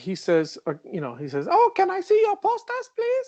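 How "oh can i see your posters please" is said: put-on loud, very high-pitched man's voice with German accent. Retelling what a German man said to the speaker: Wolfgang's high-pitched voice. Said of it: "He had a very high pitched voice".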